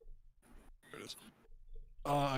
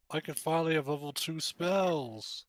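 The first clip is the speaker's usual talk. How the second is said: excited; 5 semitones higher, 6 dB louder than usual. Real, not acted. Excited about new spells.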